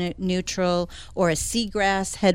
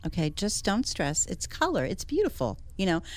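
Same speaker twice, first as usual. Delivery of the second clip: soft, soothing reassurance, slightly quieter; soothing a flustered homeowner at a color consult, softly; calming client down; 6 dB quieter than usual. Retold or imitated. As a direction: talk an anxious client off the ledge gently. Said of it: "'Cause I try to calm them down".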